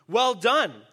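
bright, pleased exclamation; exclaiming king. Acted. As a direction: praise him with delight. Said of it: "the king exclaimed".

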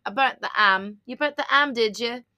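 "am" said with no H, like "am" for ham; dropped H. Shown as a demonstration. Friend jokes about a British caller dropping H sounds, lightly accented. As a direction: drop the H in "am", British style. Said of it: "You don't pronounce the H".

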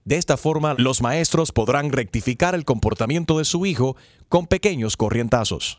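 lightly done automated recording; phone menu voice. Acted. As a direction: read it like a robocall message. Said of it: "llamada automatizada".

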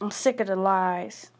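venting fury with hard punched curses; bitter angry rant. Real, not acted. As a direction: spit out every curse at the world. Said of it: "I am so mad".

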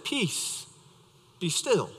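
soft, quiet hush of peace; calm the storm gently, almost breathed; calm command. Acted. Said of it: "he said".

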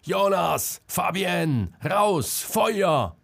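high, loud calls into the burning hut; frantic warning shouts; shouting a warning. A narrator's reading. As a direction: yell for them to get out.

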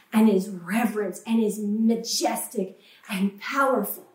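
indignant self. Retold or imitated. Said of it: "I'm like".

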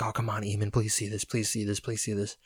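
mock desperate plea for a reply; retold pleading. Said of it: "panicking, like".

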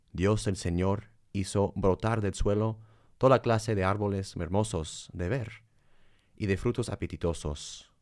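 scripture reading. Acted. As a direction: read it like scripture. Reads Genesis aloud.

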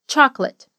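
Chocolate said as two syllables, CHOK-let. Shown as a demonstration. Teacher showing English Chocolate as CHOK-let. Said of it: "a palavra soa como duas".

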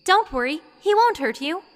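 reassuring. A narrator's reading. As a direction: reassure a frightened girl. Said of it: "Saria assured her".

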